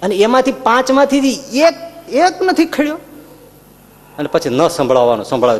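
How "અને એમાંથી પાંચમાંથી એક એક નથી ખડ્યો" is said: exasperated Duryodhan. Retold or imitated.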